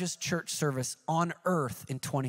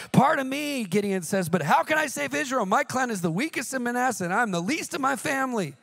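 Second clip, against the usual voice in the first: higher, pleading Gideon protesting; a high, timid excuse-maker; reluctant Gideon; 6 semitones higher than usual. Retold or imitated. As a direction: plead your weakness, hesitant and humble. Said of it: "he reluctantly says".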